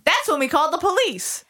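put-on landlady explaining to reporter, New York accent. S2 voices Lois in the story.

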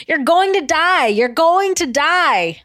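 retold threat. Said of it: "she's not saying it like that".

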